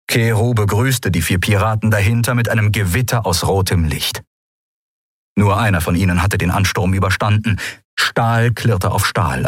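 ordinary delivery

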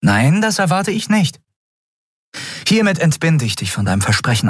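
höhere, ruhige, freigebende Stimme; Kapitänin, aufrichtig. Acted. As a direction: ihn ehrlich von der Pflicht entbinden. (Kapitänin entlässt Keru aufrichtig, höher gesprochen)

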